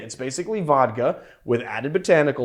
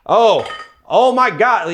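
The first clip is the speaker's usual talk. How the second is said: mock British accent, high, slow and louder; British explorer; 8 semitones higher, 7 dB louder, slower than usual. Host imitating an old-timey British explorer, mock British accent. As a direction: drawl it like a nineteen-twenties British explorer. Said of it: "one of those, like, nineteen twenties".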